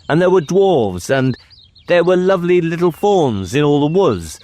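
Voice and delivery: put-on high-pitched child, babbling happily; eager little boy Caspian. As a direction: tell it like an excited small boy.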